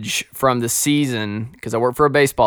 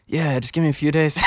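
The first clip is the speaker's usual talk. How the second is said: laughing stall. Retold or imitated.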